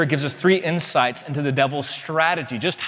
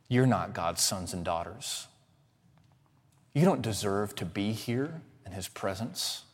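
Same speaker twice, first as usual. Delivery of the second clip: devil's accusations; 5 semitones lower, 7 dB quieter than usual. Retold or imitated.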